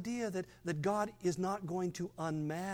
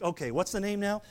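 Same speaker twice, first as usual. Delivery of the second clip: brisk, louder mock phone operator; hammed-up pastor jotting down orders, a bit louder; pastor taking sin requests; 5 dB louder than usual. Pastor mocks taking congregants' sin tips by phone, brisk and louder. I'd be on the phone all week.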